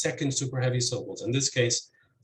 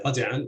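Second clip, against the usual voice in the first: RAzi'an, first syllable stressed. Shown as a demonstration. Lecturer contrasting middle column words, razi'an stressed on RA. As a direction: hit RA in razi'an. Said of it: "with stress on the first syllable".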